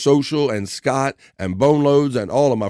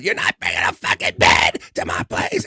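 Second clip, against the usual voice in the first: retold angry shout; 5 semitones lower than usual. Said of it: "he gets so pissed off".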